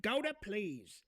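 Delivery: "Go to please"를 한 단어씩 천천히 또박또박; 못 알아듣는 상대에게 "Go to please"를 천천히 풀어 말하듯; slow and deliberate. Shown as a demonstration. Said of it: "put this in a language you might understand".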